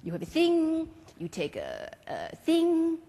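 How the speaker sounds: put-on lightly French-accented teacher; a hint of a stately French maestro; French mime master. Marceau calls students up in class, lightly French.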